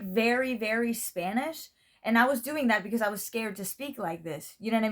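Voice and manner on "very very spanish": slow Spanish-accented English. Shown as a demonstration. Describing their old school pronunciation to viewers, Spanish accent. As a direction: lay on the Spanish accent, slowly. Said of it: "should I do a Spanish accent".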